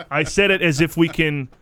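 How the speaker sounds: amused explaining. Real, not acted. Amused, explaining himself while laughing.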